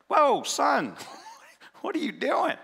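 a kind father amused at his son; amused fatherly God. Pretend. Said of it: "he's like".

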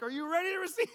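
high, loud, pushy question; loud insistent plea to get saved; mock insistent question. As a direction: demand an answer while still squeezing. Pressing again, still squeezing.

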